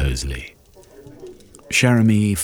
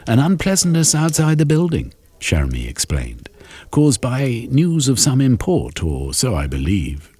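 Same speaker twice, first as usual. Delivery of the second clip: lightly raised, fussy gentleman; Shermy's voice; 8 semitones higher than usual. Acted. Shermy excuses his lateness to friends, lightly raised fussy voice. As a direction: explain yourself with mild annoyance.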